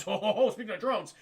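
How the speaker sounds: chuckling through the words; laughing. Real, not acted. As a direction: laugh while you say it. Laughs at chat's drone comment.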